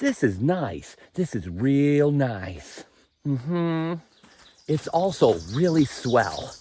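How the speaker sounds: slow, drawn-out, laid-back dude voice; lightly hammed-up hippie musing; a touch of mellow surfer, stretching the words; goofy dreamy talk. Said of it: "I don't know why I'm talking like this".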